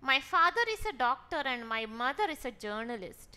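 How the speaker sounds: very slow, each word spaced out; slow dictation. Shown as a demonstration. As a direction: read the sentence slowly to the students. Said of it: "teacher reads example slowly". (വളരെ പതുക്കെ വായന)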